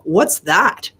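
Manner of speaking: a mild sarcastic sneer on "What's that?"; sarcastic, condescending. Retold or imitated. Mom unimpressed by daughter's second car, mildly condescending. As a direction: look down your nose at it, lightly mocking. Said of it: "very sarcastic, condescending kind of way".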